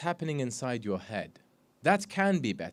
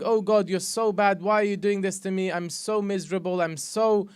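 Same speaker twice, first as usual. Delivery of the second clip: lightly voiced moaner, a touch higher; a hint of someone moaning to God; mock whiny complaint; 3 semitones higher, 3 dB louder than usual. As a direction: mimic a mild self-pitying whine. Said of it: "by you saying".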